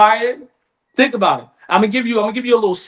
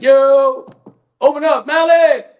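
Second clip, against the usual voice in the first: casual yo; 3 semitones higher, 4 dB louder, slower than usual. Retold or imitated. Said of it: "it's not like they're like".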